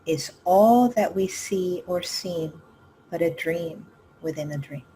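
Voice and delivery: measured poetry reading with pauses after each phrase; understated, reflective poem reading; poem recitation. Acted. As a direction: recite it in unhurried lines, lingering on key words. Reads a poem aloud.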